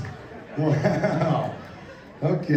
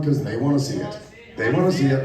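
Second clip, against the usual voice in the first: hype shout; 6 semitones lower than usual. Acted. Host egging on the crowd.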